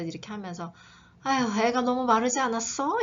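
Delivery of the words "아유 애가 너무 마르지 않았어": worried question. Acted. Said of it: "이렇게 말을 하는 거잖아요".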